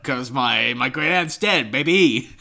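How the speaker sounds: whiny mock Selma; muffled wah wah talk. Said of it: "she says".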